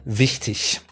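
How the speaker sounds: "wichtig" ending in a soft ich sound, Sauerland style. Shown as a demonstration. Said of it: "In my region, which is the Sauerland".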